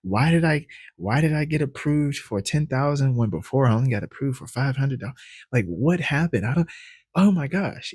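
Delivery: can't believe your luck; reliving the shock of a ten thousand dollar approval; excited disbelief. Retold or imitated. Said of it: "And I was so excited".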